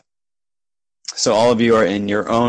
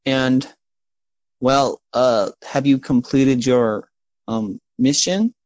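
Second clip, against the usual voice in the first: higher-pitched, hesitant gnome; Baker; 3 semitones higher than usual. Acted. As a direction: introduce yourself as a halting little gnome assistant. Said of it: "that's a gnome".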